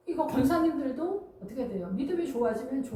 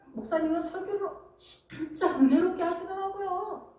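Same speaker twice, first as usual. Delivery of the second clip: lightly voiced pushy deaconess, lilting higher in places; nagging church elder; 4 semitones higher than usual. Church elder tells pastors and their wives to work harder, lightly mock nagging. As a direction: imitate a senior church lady prodding the clergy. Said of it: "목사님들한테 갑질을 해요".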